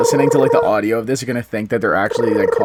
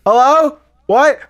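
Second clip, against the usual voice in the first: confused caller; 12 semitones higher, 5 dB louder, much slower than usual. Retold or imitated. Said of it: "the person was like".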